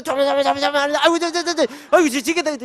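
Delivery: high, fretful cries of panic; panicky. Retold or imitated. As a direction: fret as the game slips away. Panicking watching the match. (조마조마하게 외치는 흉내)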